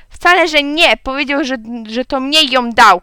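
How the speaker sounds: high, loud contradiction; shouted protest. A narrator's reading. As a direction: snap back loudly like a child. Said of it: "krzyknęła Otylia". (głośny, wysoki sprzeciw)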